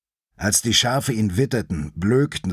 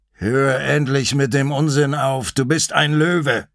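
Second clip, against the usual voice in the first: raised pitch, firm reprimand; commanding lion, mildly exasperated; insistent mountain lion; 4 semitones higher, 3 dB louder than usual. Acted. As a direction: scold the young one with rising insistence. Narrator voices the mountain lion.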